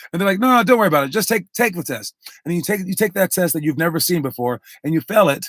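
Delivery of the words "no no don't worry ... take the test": imitated teacher. Acts the insistent teacher.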